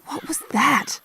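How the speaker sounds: hushed whispered question to a companion. Acted. Companion whispers an aside, wary of the magician. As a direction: whisper it so the magician won't hear.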